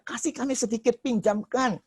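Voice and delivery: high-pitched acted begging; imitated pleading. Preacher playing the unprepared one asking for fuel, high pleading voice. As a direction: plead like someone begging to borrow. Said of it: "saya percaya dia memelas".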